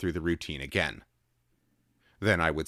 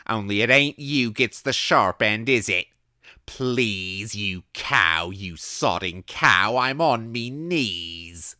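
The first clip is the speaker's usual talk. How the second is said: slow, loud, pleading Cockney rant; drunken shouting; 6 semitones higher, 8 dB louder, slower than usual. A narrator's reading. Drunk vagrant shouting and pleading at her locked door. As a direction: beg and curse at the door. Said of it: "he was shouting".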